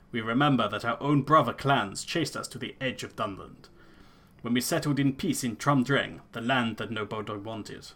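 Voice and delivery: Elder in a lightly put-on rustic accent; solemn clan elder in a hammed-up accent; a hint of a bad fantasy accent. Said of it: "this fucking accent I'm going for".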